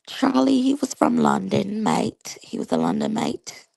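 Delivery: playful put-on London accent, leaning on "mate"; mock Cockney lilt for fun; lightly done London accent. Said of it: "Y'all like my London accent?".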